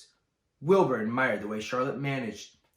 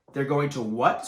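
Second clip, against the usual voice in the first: screamed; 3 semitones higher, 7 dB louder than usual. Acted. Wilbur screaming at the old sheep's news. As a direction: shriek it in disbelief. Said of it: "screamed Wilbur".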